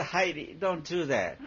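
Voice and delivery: high, chuckling scold of a dog; laughing mock scold. Owner scolding the barking puppy Heidi, laughing. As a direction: tell the dog off through a laugh. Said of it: "You say".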